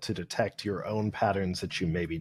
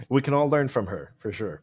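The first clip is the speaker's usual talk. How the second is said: laughing; 6 semitones higher, 4 dB louder than usual. Real, not acted. Laughing agreement about a singer.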